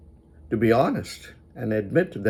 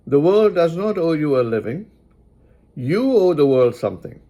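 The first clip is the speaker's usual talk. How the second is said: slightly louder, lean on world and owe; repeated for emphasis; 5 semitones higher, 4 dB louder than usual. Shown as a demonstration. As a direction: drive the line home word by word. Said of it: "So I'll repeat for emphasis again".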